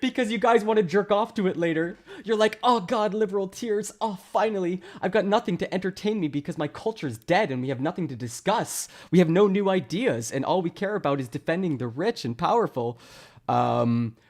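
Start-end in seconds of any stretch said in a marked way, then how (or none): 2.6-13.0 hammed-up blissful relief, starting higher; mock ecstatic gushing that eases off. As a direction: parody someone gushing with relief. Mimics opponents relishing liberal tears.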